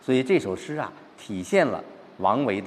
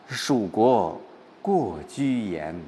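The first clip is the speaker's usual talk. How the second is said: slow, weighed-down reading; pensive, brooding recital of the verse; gloomy recitation; much slower than usual. Shown as a demonstration. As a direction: let the gloom drag the words. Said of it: "这还是在郁闷当中".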